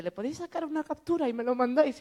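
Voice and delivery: high, loud, eager plea; imitating a giddy fan; eager request. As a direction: ask like a giddy girl. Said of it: "y entonces dice".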